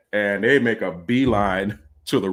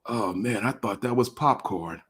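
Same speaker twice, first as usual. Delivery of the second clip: altered state; 5 dB quieter than usual. Retold or imitated. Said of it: "altered state, he tells me".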